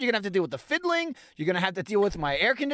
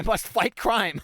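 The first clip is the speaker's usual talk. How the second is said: mock hero; slower than usual. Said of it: "I'm the hero".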